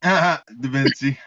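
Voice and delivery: slow, drawn-out laughing Da Vinci. Real, not acted. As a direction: stretch Da Vinci through a laugh. Laughing at a silly name.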